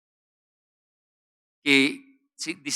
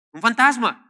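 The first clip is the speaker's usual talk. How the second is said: startled high call of fear; frightened cry; 7 semitones higher, 6 dB louder than usual. Acted. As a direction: cry out as if seeing a ghost. Terrified disciples cry out.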